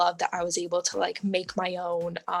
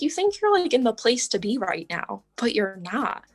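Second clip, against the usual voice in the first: much higher mock prophetic voice; imitating the psychic; 4 semitones higher than usual. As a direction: play the psychic, knowing and sure. Quoting the psychic's prediction.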